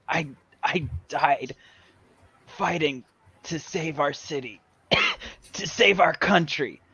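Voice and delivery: halting last words broken by coughs; dying friend. Pretend. Dead Dan gives Jim his last words, halting and coughing. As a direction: cough and stammer through a dying plea. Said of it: "pretending to be his dead friends".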